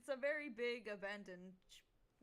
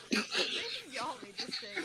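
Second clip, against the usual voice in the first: bewildered bystander voice; 4 semitones higher, 9 dB louder, slower than usual. Acted. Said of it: "He's like".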